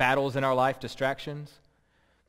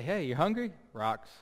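a hint of a sly serpent, softer; lightly voiced tempting serpent, quietly; serpent tempter; 6 dB quieter than usual. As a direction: coax him softly like the tempter. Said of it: "the voice of the serpent entered into his ear".

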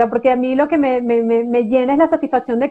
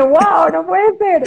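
awestruck wow; 4 semitones higher, much slower than usual. Retold or imitated. Overwhelmed at own dressing room.

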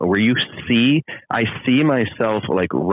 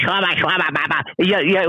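higher, mocking brush-off; dismissive blah; 10 semitones higher than usual. Brushing off critics, dismissive and mocking. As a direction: wave them off with nonsense. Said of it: "I'm like".

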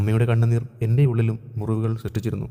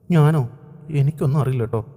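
startled; 4 semitones higher than usual. Acted. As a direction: caught off guard, protest at once. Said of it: "അവൾ ഞെട്ടി".

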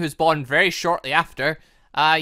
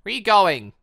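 normal talking voice

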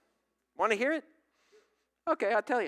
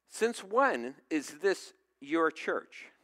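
slow, gentle question from the Holy Spirit; gentle and polite; slower than usual. Retold or imitated. Holy Spirit gently questioning the pastor, slow and polite. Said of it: "very gently and politely".

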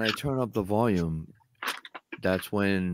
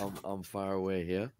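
far from mic; 10 dB quieter than usual. Real, not acted.

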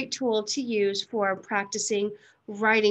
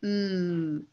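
lightly voiced teacher cueing pupils; teacher addressing class; 3 semitones higher than usual. Teacher prompts boys and girls for the first sound, lightly acted teacher voice. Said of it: "And you can say".

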